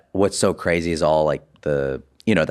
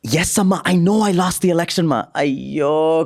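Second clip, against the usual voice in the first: high, loud Indian accent impression of Vivek; 12 semitones higher, 4 dB louder than usual. Comedian performing his Vivek bit on a phone call, high Indian accent. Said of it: "So I can do that".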